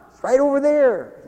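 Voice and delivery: put-on a touch of a high kid's voice, pointing it out; lightly voiced child. Kids pointing the pastor to the boy, lightly voiced. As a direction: chirp it like a helpful little kid. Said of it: "little kids are pointing".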